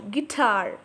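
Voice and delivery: "guitar" with the second syllable, tar, stronger; stress on TAR. Shown as a demonstration. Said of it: "tar sounds loud".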